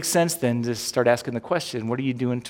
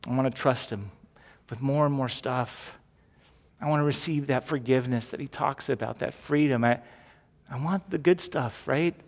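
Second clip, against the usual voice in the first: sample prayer. Shown as a demonstration. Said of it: "you just say something like this".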